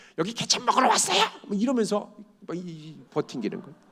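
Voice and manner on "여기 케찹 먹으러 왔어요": mock yelling, high and shouted. Retelling what a restaurant employee said to a customer: imitating someone shouting. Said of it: "소리를 지르면서".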